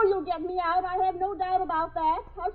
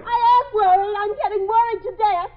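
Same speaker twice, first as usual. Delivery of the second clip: panicked outburst; 6 dB louder than usual. Acted. Trapped woman panicking.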